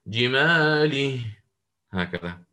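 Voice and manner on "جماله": جماله slow, final vowel leaning toward e; imala on the pause. Shown as a demonstration. Teacher demonstrating the imala stop on جماله. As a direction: stretch جماله and bend its end toward e. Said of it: "بالإمالة قولا واحدا".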